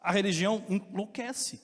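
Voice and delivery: rising to a loud, slow preaching cry; building sermon climax. Acted. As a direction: build each phrase to the peak.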